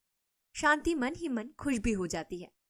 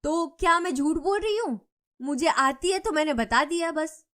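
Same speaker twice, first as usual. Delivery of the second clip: louder, irritated, words tumbling fast; irritated rapid retort; 5 semitones higher, 4 dB louder than usual. A narrator's reading. A touch of an angry quarrel. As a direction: neighbor snaps back, annoyed at being doubted. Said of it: "चिढ़ जाती है और तेज-तेज बोलने लगती है".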